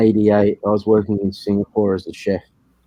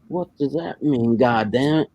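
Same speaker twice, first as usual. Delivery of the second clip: lightly mocked slow Texan drawl; a hint of a baffled cartoon Texan; 4 semitones higher, 3 dB quieter than usual. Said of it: "a real Texan type thing, imagine in, in cartoons".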